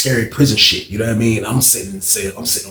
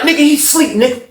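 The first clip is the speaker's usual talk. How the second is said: menacing answer; 14 semitones higher, 4 dB louder than usual. Retold or imitated. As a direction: brush him off from behind the door. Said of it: "He was like".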